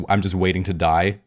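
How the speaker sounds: dry sarcastic voice. Shown as a demonstration. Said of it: "a very dry, you know, sarcastic kind of".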